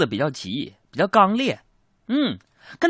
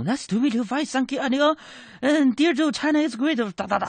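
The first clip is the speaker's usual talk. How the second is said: foreign English gibberish; 12 semitones higher than usual. Retold or imitated. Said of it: "叽里咕噜说了一大通".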